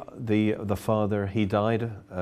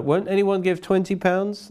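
high auctioneer plea for a bid; auctioneer call; 10 semitones higher, 3 dB louder than usual. Retold or imitated. Auctioneer urging the crowd to bid, high and pleading. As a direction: coax the room to bid higher.

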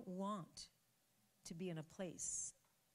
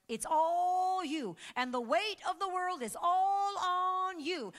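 slow, higher and louder with a sob in it; crying preach; 12 semitones higher, 11 dB louder, slower than usual. Acted. Preacher feeling Elijah's burden, near tears. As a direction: let the weight break the voice.

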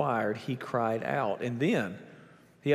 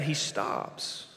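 dramatic whisper; 6 dB quieter than usual. Acted. Jesus stops, dramatic beat.

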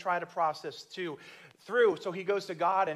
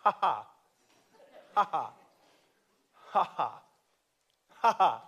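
mock "ha ha" pushed out on command; a pastor obeying God, forcing out "ha ha"; forced laugh; 4 dB louder than usual. Pastor forcing out laughter on God's order, dutiful mock laugh. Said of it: "kept walking around going".

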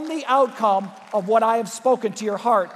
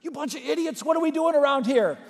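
mock angry yell; 5 semitones higher than usual. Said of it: "Jesus may have yelled at them".

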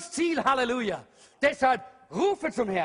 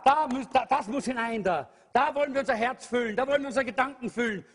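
ordinary talk, nothing marked

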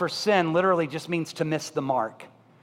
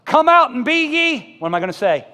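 put-on old-time preacher quoting scripture; 5 semitones higher, 6 dB louder than usual. Mocking the preachers of his upbringing, booming. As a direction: thunder the verse like a fire-and-brimstone preacher. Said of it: "I was told verses like this".

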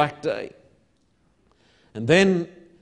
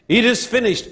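high-pitched preacher's cry; raised, emphatic quoted cry; imitated crying out; 6 semitones higher, 6 dB louder than usual. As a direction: proclaim it as Jesus' outcry. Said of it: "cried out in his darkness".

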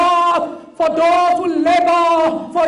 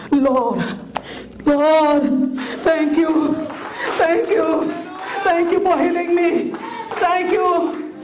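grateful leper praying. Acted. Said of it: "Then one of them said".

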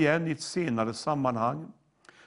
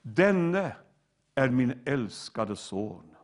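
slow, lowered, tender proclamation; unhurried fatherly warmth, sinking lower; 3 semitones lower, slower than usual. Acted. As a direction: voice a loving father gently, without shouting. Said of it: "en varm fadersstämma som ropar".

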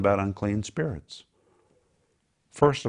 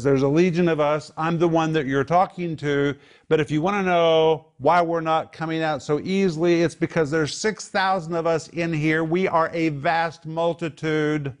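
raised, higher demon boast; 6 semitones higher than usual. Acted. Demon voiced by preacher.

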